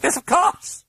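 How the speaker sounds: high, loud, cackling reply; mocking British chuckle; amused British voice. A narrator's reading. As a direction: say it through amusement. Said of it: "with a cackle of amusement".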